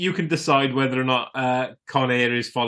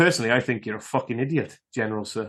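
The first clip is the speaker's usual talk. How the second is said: put-on Irish accent, brogue; 2 semitones lower than usual. Quoting a favourite film line where a character addresses the general, in an irish accent. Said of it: "I went Irish then".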